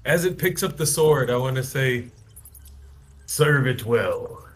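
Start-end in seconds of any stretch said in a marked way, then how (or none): 3.3-4.5 dark whisper behind you. Acted. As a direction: intone it slowly, unseen in the dark. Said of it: "just a voice in the darkness".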